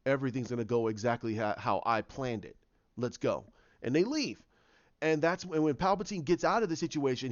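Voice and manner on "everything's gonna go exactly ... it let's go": low, assured mastermind aside; lightly acted villain wrapping up; retold scheming villain. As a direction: state it low, sure of the plan. Snoke confident of plan, retold.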